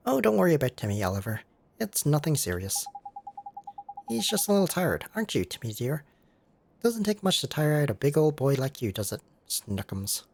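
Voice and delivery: lightly voiced fussing older lady; a hint of a fond auntie; doting cat lady. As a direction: coo to the cat. Layla reassures.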